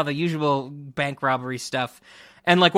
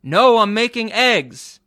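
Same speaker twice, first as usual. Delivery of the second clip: put-on grumpy old man; 6 semitones higher, 7 dB louder, slower than usual. Husband's grumpy reply in scene.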